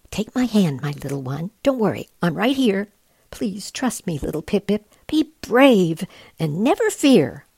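lightly voiced tender mother penguin; coaxing mother. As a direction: reassure the frightened chick. Mother urging chick to jump.

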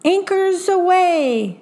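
high ringing captain's order. A narrator's reading. Captain ordering his crew to set sail, high and ringing. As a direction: call the order like a pirate captain. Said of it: "as brave Captain Jack ordered".

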